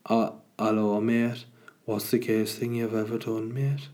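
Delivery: another mock Northern English take; Northern English accent. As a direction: greet a mate in Northern English. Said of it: "but asked in a Northern English accent".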